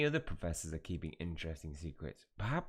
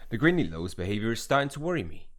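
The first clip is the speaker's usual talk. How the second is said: louder, full put-on character accent on "The Grindylows' behaviour"; character accent back; 8 dB louder than usual. Shown as a demonstration. Gamer retrying the line with the lost character accent. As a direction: land the accent this time, louder and fuller. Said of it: "There he is".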